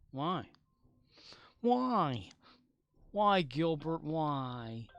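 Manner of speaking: overacted, high-pitched demand for answers; mock anguish. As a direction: wail it like a melodrama hero. Mock anguished plea to Gilbert.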